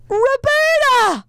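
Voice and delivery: high, drawn-out cry of a name; mock anguished call. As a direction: wail the name as if searching for someone lost. Acts calling for lost recorder.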